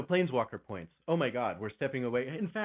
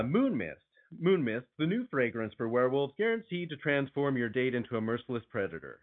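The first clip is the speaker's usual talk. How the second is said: sultry perfume ad. Acted. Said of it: "I do need to get into this read".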